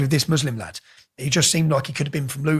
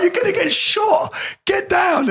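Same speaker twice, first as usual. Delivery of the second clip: soldiers shouting; 13 semitones higher, slower than usual. Retold or imitated. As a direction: bark the order like a soldier.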